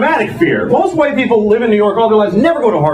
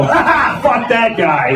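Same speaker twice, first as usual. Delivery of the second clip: mocking laughter; slower than usual. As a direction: laugh scornfully as the hippie. Mimics hippie laughing at white trash.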